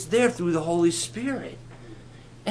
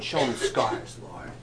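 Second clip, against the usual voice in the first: eager Peter. Retold or imitated. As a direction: egg him on, then call out. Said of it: "Peter's going".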